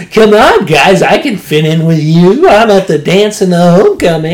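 mock try-hard enthusiasm; imitating eagerness to fit in. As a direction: plead to be one of the gang. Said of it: "trying to fit in so hard".

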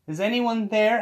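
high, loud mock call for whoever's hiding. Mimicking someone who hears a noise, calling out. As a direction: call out as if searching the room. Acting out a scared person calling.

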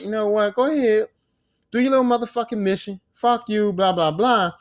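mock exasperated send-off; fed up. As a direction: wave him off, acting the sick-of-it wife. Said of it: "the wife was fed up".

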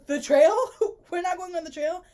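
high, mock-panicked question with a laugh. A narrator's reading. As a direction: read it alarmed, half laughing. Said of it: "Panic was clear in my voice".

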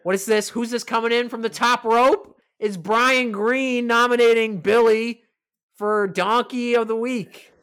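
big hyped-up announcer voice, slowing on the reveal; mock wrestling announcer. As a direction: announce a surprise entrant coming off the top rope. Mock wrestling announcer entrance call.

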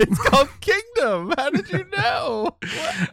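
high, loud, amazed squeal; astonished at his guess; surprised. Real, not acted.

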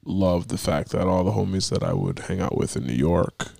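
sick, raspy voice; hoarse voice. Real, not acted. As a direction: talk through a sore throat. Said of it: "currently sounding like I'm a soul artist".

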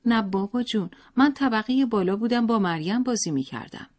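put-on a child eagerly answering his father; little boy. A narrator's reading.

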